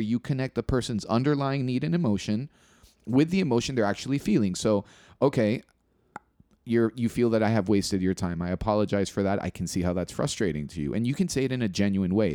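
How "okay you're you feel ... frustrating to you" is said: rote, hollow empathy statement; insincere apology. Shown as a demonstration. To a friend, showing how a canned apology sounds: flat and insincere. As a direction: recite the apology without meaning it. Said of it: "doesn't sound genuine".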